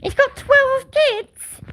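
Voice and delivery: loud, very high astonished outburst; shocked disbelief. Real, not acted. Mum of seven discovering someone has twelve, shocked. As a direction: blurt it out high and loud, amazed.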